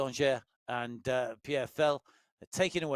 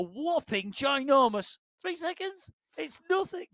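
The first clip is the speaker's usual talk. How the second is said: sarcastic; 11 semitones higher, 3 dB louder than usual. Real, not acted. Mock drama about tiny gap.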